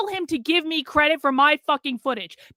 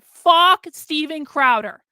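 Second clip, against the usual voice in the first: slow, loud, bitter swearing; angry curse; 5 dB louder, slower than usual. Real, not acted. Streamer cursing the influencer who stole his work, slow angry curse. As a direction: drag it out with real contempt.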